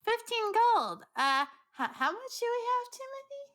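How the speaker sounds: high shocked squeak. Acted. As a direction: react with outraged surprise. Jasper shocked at the price.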